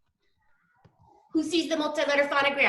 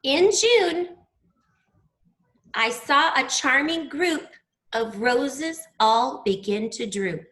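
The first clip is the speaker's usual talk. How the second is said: poem recitation; slower than usual. Acted.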